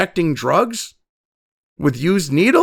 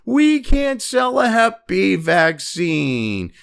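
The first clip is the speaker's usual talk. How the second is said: mock whining; much slower than usual. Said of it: "whining and fucking crying".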